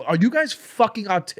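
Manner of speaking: high, loud, slow mock yell at the crowd; retold shouted insult. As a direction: bark the insult at the audience in the retelling. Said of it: "I go".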